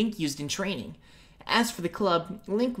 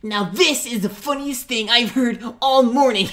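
laughing mockery; 6 semitones higher, 8 dB louder than usual. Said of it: "then Mito laughed".

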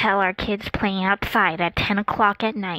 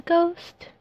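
spooky voice; 9 semitones higher than usual. Acted. Spooky ghost voice.

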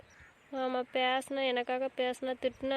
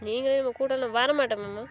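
louder, pitched-up hurt outburst; angry outburst; 2 semitones higher, 5 dB louder than usual. Acted. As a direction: throw the words at him in hurt anger. Niece shouting at uncle in quarrel.

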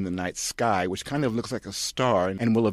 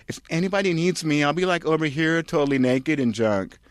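breezy airhead; airhead Kirsten; 8 semitones higher, 4 dB louder than usual. Acted. Kirsten announcing she'll be naked, high valley-girl voice.

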